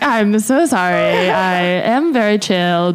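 slow, drawn-out apology; retold forced chill. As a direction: imitate trying to stay composed, stretching the words. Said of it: "I was trying to be like".

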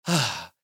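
relieved sigh. Retold or imitated. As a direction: let the breath out, relieved and soft. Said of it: "first my reaction was like".

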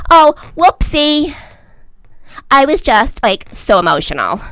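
mock his fake-sorry tweet; sarcastic baby-talk apology; mocking whine.

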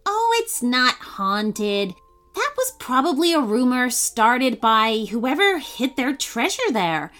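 put-on lively storybook reading for kids; bright children's story read; story narration. A narrator's reading. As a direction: tell it like a bedtime story. Reads a kids' story aloud.

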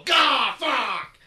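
startled curse. Retold or imitated. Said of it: "I see Big Bill".

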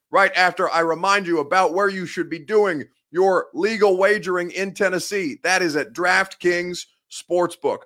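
measured, punched-up radio ad read; sponsor ad read. Acted. Sports host pitching a betting app to viewers, ad read. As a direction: sell it, leaning on the key phrases.

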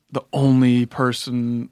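ordinary talk

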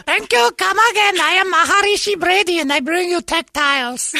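lightly put-on Indian shopkeeper voice; bad Indian accent. Clerk thanking a customer in a bad Indian accent. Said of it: "I can't do the accent very good".

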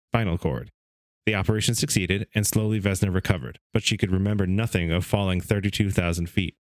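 measured read-aloud narration; story reading. Acted. Host reading a book's story to his co-hosts, narrating. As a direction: read the account like an old magazine story.

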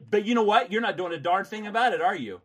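high, loud furious yelling; shouting. Real, not acted. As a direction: shout her down. Heated argument with collector.

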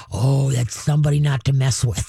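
a hint of a dog backing down; wary dog. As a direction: drop the pitch a little, respectfully wary. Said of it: "you got a deep, firm voice".

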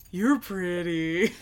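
slow, dopey mock admiration; smitten prince. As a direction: draw it out, dumbly smitten. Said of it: "King Lear's like".

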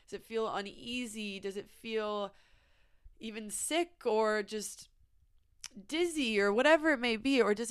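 soft, unhurried, guiding them to breathe; calm guiding. Real, not acted. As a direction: lead a gentle check-in with pauses. Guides listeners to pause and feel.

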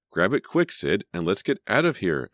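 high, loud urging at the start; mildly exasperated urgency, easing down in pitch; urgent groan. A narrator's reading. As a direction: groan it out, wanting to leave. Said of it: "Emma groaned".

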